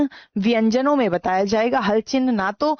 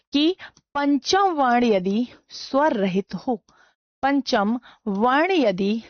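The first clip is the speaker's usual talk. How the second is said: slow dictation, phrases repeated with pauses; slower than usual. Shown as a demonstration. Teacher dictating the anusvara rule for notes, slow dictation. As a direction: give them time to write each word.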